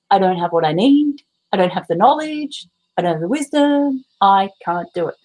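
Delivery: nagging inner voice. Retold or imitated. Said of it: "this voice all day going".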